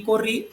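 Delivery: "corrí" with the final "rrí" lifted in pitch; teacher's example, "corrí" rising sharply onto "rrí"; stress on final syllable. Shown as a demonstration. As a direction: lean on the last syllable of "corrí". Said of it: "tiene acento en la última sílaba".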